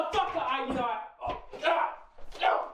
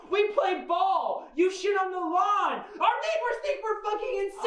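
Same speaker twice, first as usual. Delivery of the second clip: 1 angry yelling; 3 semitones higher than usual. Acted. Father yells at son playing dog.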